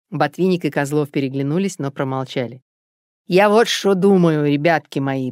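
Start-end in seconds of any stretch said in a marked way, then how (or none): 3.3-5.3 purring. Acted. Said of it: "промурлыкал Затрава".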